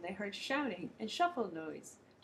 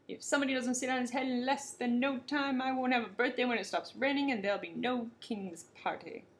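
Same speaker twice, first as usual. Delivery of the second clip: furious king; 3 semitones higher, 3 dB louder than usual. Acted. Furious king threatens the bottersnakes.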